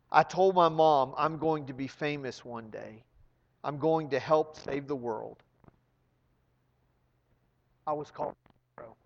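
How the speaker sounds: ordinary delivery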